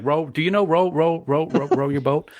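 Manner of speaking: a mild, playful tipsy sing-song quote; tipsy Kirk. Retold or imitated. Podcaster quoting tipsy Kirk at the campfire, lightly slurred. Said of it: "they're slurring their words".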